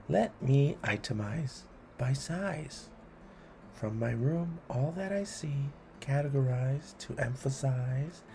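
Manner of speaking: brisk rhythmic listing; poem reading. A narrator's reading. Host reading a list poem to kids, brisk and rhythmic. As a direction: tick off each item with relish.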